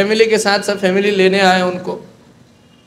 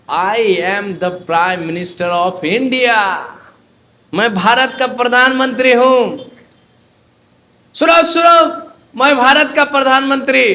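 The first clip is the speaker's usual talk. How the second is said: madman shouting; 3 semitones higher than usual. Retold or imitated. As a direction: bellow it across the whole campus. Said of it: "और चिल्ला रहा है".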